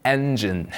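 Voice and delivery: "Engine" in careful English, falling at the end; English pronunciation. Shown as a demonstration. Teacher repeats the word for learners, careful English "Engine". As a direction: model "Engine" as two even English syllables for repeating. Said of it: "발음 바로 따라하겠습니다".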